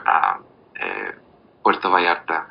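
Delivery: ordinary delivery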